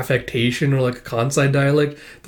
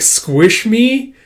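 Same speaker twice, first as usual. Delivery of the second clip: startled echo; 9 semitones higher, 5 dB louder than usual. Acted.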